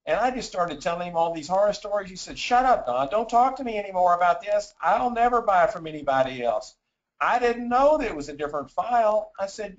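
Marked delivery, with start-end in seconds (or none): 2.4-9.3 mild retold excitement. Retold customer reacting emphatically.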